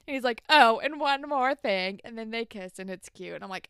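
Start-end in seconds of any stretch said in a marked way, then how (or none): 0.5-2.0 mock smooth line. Spinner before the kiss.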